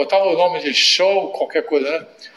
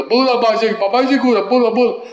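higher, urging jump; father urging son to jump, higher; coaxing father; 5 semitones higher, faster than usual. Retold or imitated. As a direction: egg the kid on to leap, pitched up.

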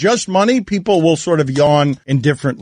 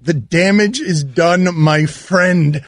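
mock New England accent; slower than usual. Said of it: "That accent is so New England".

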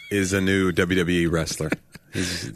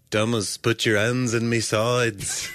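put-on Liverpool accent; slower than usual. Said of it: "sound like John Lennon as Jesus".

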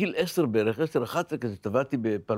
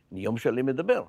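ordinary talk, nothing marked

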